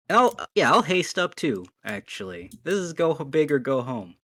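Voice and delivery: loud, high, pumped-up; excited. Real, not acted. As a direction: go big, all hyped. Player hyping a big attack.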